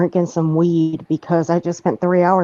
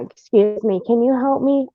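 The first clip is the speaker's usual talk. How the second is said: mock helpless request; 4 semitones higher than usual. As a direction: imitate someone sheepishly asking for help. Acts out an implausible helpless request.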